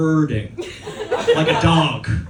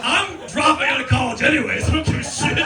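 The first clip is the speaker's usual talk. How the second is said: carefree mock shout; 7 semitones higher than usual. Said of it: "I'm like".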